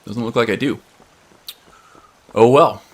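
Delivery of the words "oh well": chewing while talking; crunching. Real, not acted. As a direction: talk through a mouthful of chips. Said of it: "Pardon my crunching here".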